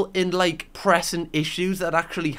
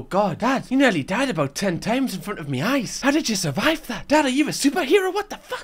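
mock grown-up child; 4 semitones higher than usual. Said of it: "The child's gonna one day grow up and go".

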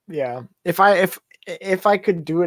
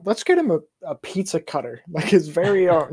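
excited parents, high and loud at first; imitating parents; 3 semitones higher, 5 dB louder than usual. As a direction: quote the parents gleefully, laughing at the end. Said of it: "and they were like".

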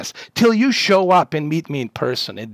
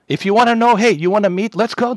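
much higher and louder, daring him; furious shout; 8 semitones higher, 5 dB louder than usual. Real, not acted. Streamer daring the troll to meet up, furious yell. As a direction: yell the challenge in real rage.

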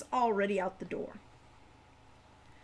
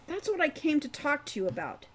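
put-on eager young voice, higher and quicker; eagerly; 6 semitones higher, 4 dB louder than usual. A narrator's reading. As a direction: rush it out, keen to help. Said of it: "said Hawk eagerly".

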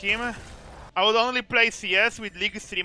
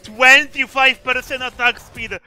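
loud, high, drawn-out disbelief; incredulous gamer yelling; outraged rant; 5 semitones higher, 11 dB louder, slower than usual. Real, not acted. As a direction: shout it in exasperation, stretching the words. Outraged rant at game item.

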